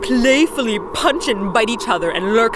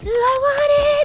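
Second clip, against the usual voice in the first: villain voice; 13 semitones higher, 4 dB louder, much slower than usual. Acted. Villain voice in parody skit.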